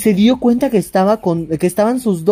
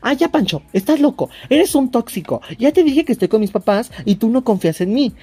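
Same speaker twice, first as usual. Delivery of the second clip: mock exasperated girlfriend, higher voice; annoyed girlfriend; 4 semitones higher than usual. Girlfriend dismisses Pancho on the phone, mock annoyed. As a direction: brush him off, fed up.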